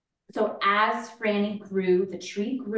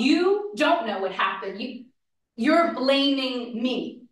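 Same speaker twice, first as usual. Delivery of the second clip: hurt defensive protest; 4 semitones higher, 3 dB louder than usual. Acted. Mother answers daughter's accusation.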